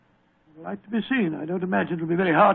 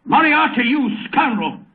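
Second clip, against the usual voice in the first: outraged cry; 6 semitones higher, slower than usual. Acted. Watson raging at Moriarty through the panel, indignant shout. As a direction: spit out the villain's name in fury.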